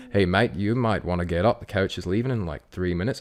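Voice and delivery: bad Kiwi accent, calm; terrible New Zealand accent, laid-back. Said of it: "I'll do the Kiwi accent terribly".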